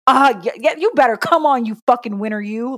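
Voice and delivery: playful hyped praise; proud hype-up. Acted. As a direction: egg on a winner with relish. Mother voices cheering on her son.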